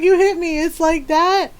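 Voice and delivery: hammed-up hurt protest; protesting brother. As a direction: imitate a wounded son protesting. Brother protests to mom after hit.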